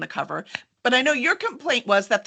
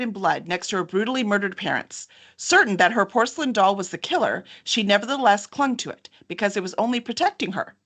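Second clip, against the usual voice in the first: dramatic blurb read. Acted. Host reading the back cover copy to viewers, suspenseful. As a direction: read it like a thriller teaser.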